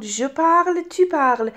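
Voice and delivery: "parle" and "parles" both said "parl"; identical verb sound. Shown as a demonstration. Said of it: "تلفظ این دوتا شبیه هم شد". (تلفظ یکسان «parle» و «parles»، بدون s)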